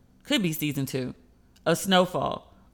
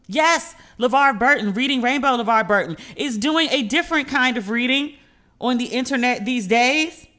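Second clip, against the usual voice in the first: excited; 4 semitones higher, 4 dB louder than usual. Real, not acted. Excited reveal of LeVar Burton.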